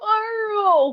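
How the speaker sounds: high, long, stretched-out drawn-out cry. Imitating a character calling out when carl is hurt: mimicking his way of saying it. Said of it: "the way he says it, it is the worst".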